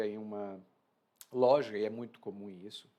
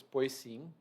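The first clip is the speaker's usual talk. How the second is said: sceptical pois sim. Acted. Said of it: "Pois sim" tem a entonação específica".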